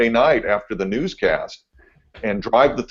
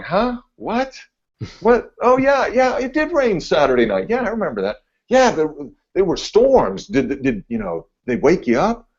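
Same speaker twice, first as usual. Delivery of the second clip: much higher, puzzled mock voice; mock clueless coworkers; 10 semitones higher than usual. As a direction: play the coworkers as baffled and oblivious. Mimics clueless newsroom coworkers.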